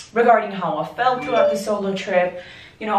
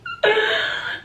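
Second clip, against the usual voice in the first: high-pitched giggling fit; high giggle fit. Real, not acted. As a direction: let a helpless giggle fit take over. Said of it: "I don't know why I'm laughing".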